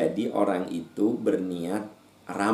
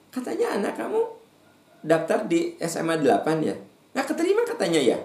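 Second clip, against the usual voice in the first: high prying busybody voice; nosy busybody; 8 semitones higher than usual. Acted. Preacher mocking a nosy neighbour, high prying voice. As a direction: squeal it like a gossipy neighbour.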